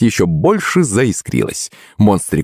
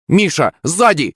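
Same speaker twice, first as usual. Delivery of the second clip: high-pitched urgent warning; warning cry; 9 semitones higher than usual. A narrator's reading. Player warning friend of tackle, high sudden cry. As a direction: cry out a warning, without much volume. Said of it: "вскрикнул я".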